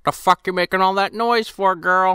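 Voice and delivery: a hint of an annoyed father yelling from the next room; grumpy dad. Dad yelling from the other room at his daughter, lightly voiced annoyed. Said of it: "you just hear her dad from the other room".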